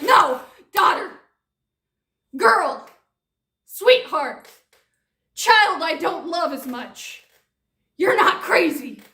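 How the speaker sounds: hammed-up mom voice, calling out comfort; loud mock reassurance. Mom loudly reassures her daughter, hammed-up comfort.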